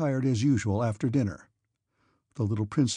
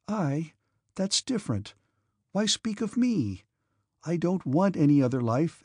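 put-on gentle young woman voice; 4 semitones higher than usual. Princess Mary speaking.

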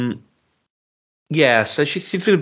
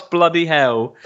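Welsh shout of bloody hell; mock Welsh exclamation, a bit higher; Welsh accent; 4 semitones higher, much slower than usual. Podcast host imitating actor's Welsh outburst in Welsh accent. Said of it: "in his Welsh accent".

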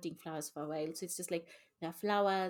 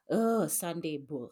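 mock groan; 4 dB louder, slower than usual. Mocking a dreaded Sunday chore.

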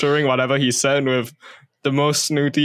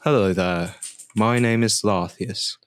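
lower-voiced character introduction; measured self-introduction, pitched down; Larth; 4 semitones lower than usual. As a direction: try out a lightly put-on, lower character voice. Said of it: "I'm gonna try and do Larth".

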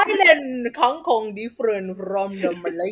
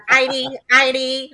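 loud curt guard demand; barking security guard; 4 semitones higher, 8 dB louder than usual. Retold or imitated. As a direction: bark it out like a bored guard. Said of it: "in that tone of voice".

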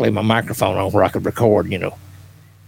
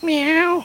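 imitated cat meow. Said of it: "a little bit louder".

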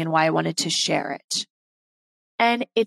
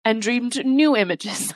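choked up. Real, not acted. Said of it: "I'm getting choked up here".

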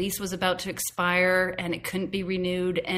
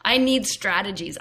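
insistent; 4 semitones higher, 5 dB louder than usual. Retold or imitated. Her protest continues.

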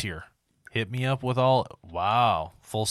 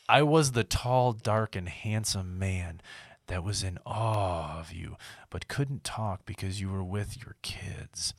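sultry voice; 4 dB quieter than usual. Acted. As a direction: read it like a sultry narrator. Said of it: "The sultry voice".

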